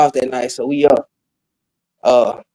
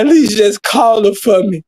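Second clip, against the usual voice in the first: imitated lovesick plea, higher pitched; mock boohoo crying; 5 semitones higher than usual. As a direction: imitate a tearful friend begging a favor. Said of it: "He boo-hoo crying".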